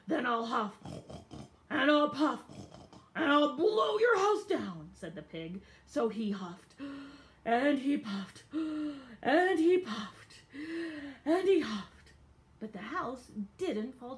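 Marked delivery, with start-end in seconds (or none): 0.1-4.9 building big bad threat; loud threat. Pig threatens wolves. 5.8-12.1 slow, loud, building huff and puff; dramatic huffing. A narrator's reading. Narrator acts out huffing.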